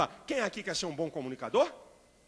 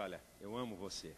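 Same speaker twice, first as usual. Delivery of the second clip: 1 tender sincere; 10 semitones lower, 9 dB quieter than usual. Shown as a demonstration. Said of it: "se eu disser".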